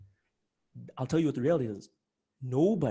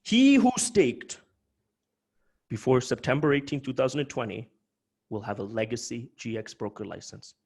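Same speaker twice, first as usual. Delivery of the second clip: mock proclamation. Shown as a demonstration. Host proclaiming the staking rule to the webinar, mock solemn. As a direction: announce it like an old law.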